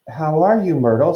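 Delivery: high, forced cheery greeting; falsely bright. A narrator's reading. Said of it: "in a falsely bright voice".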